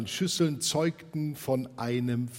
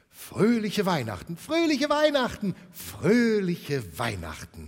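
loud, very high joyful cheer; a whole family toasting; 9 semitones higher, 8 dB louder than usual. Acted. Family cheers, glasses clink.

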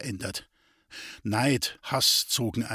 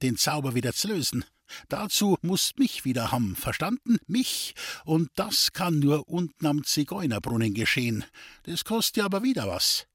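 put-on lightly raised voice of a sly old gypsy; a hint of a wheedling gypsy fortune-teller; 4 semitones higher than usual. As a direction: tease him with the rival's luck. The gypsy Duli demands money.

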